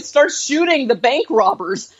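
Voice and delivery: ordinary delivery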